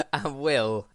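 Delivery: a touch disheartened introducing a name. Real, not acted. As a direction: say the name with little enthusiasm. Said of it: "sound so disheartened when you said".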